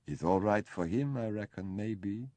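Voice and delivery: a light imitation of Kurt's German accent; mimicking Kurt's accent. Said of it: "mimicking Kurt's accent".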